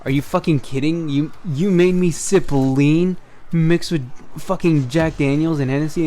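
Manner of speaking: mildly acted-out indignation; retold outraged disbelief. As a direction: accuse in disbelief, stretching the key words. Retold outrage on learning of lean.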